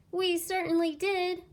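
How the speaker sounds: high, loud eager reply; joyful relief; kids crying out. Acted. Kids welcoming teacher back, excited cry. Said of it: "cried the kids".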